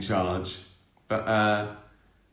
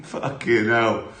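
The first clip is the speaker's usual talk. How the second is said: laughing; 6 dB louder, slower than usual. Real, not acted. Laughing at own story.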